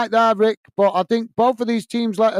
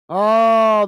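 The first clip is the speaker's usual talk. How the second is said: long, exasperated "oh"; a touch of real exasperation; fed up; 3 semitones higher, 4 dB louder than usual. Real, not acted. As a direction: groan it out, fed up with the referee. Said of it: "I'm getting tired of this".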